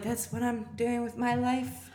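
high, slow put-on voice; deadpan disbelief; mock dismay. Guest answering the landlady in high, slow mock dismay.

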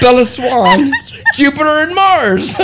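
laughing hard through the names; can barely get the words out for laughing. Real, not acted. Laughing fit over planet names.

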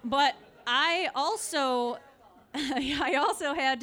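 laughing through the words. Real, not acted. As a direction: giggle as you start the line. Laughing while telling story.

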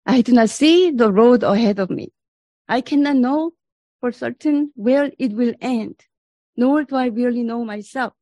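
solemn, earnest prayer read aloud. Acted. Reads Merton's prayer.

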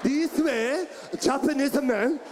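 mock Japanese male accent; Japanese man from the diaphragm. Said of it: "it come from diaphragm".

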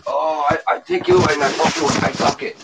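high, hammed-up mock Asian accent; put-on Asian accent. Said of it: "Go ahead, speak Asian".

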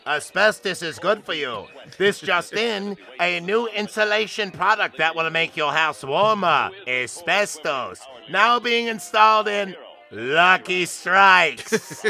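a touch of a newsreel pitchman; old radio announcer. Pretend. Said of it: "Old-timey radio?".

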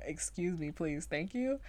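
a hint of politeness, mostly her own voice; lightly proper. She repeats her own sleep-talk, only lightly proper. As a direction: repeat the polite phrase almost plainly. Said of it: "the most proper thing you could ever say".

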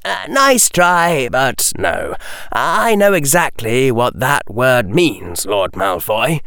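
a hint of a sharp boy turning down a bluff; a lightly voiced young Harry, calmly refusing; Harry's voice. Harry answers Lucius.

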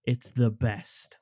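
slow, drawn-out quote of a film villain; deliberate, stretched-out movie line delivery; Billy Drago. Retold or imitated. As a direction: linger on the words, very slowly. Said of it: "What he actually says is".

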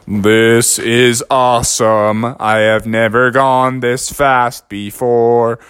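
low, slow amazed turtle. Acted. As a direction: marvel slowly at the speed.

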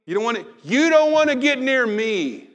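loud high shout of warning; loud outcast warning cry; leper's warning. Acted. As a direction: shout them away from you. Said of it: "Someone's coming up and like".

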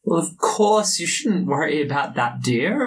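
lightly voiced noble lady, condescending; a hint of a patronising aristocrat; haughty noble lady. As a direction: reassure sweetly from above.

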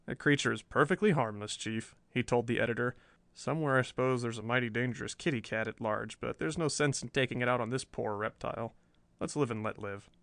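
calm the chief down gently; soothing calm. Acted. Perry calms chief.

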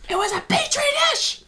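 mock high-pitched outburst; Tony. Podcast host mimicking a film character's repeated line, shrill mock outburst. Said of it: "Tony's like".

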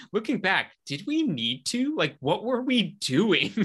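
a light high take on a sheepish filmmaker; rueful Judd. Retold or imitated. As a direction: mimic a director second-guessing himself. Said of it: "And he was like".

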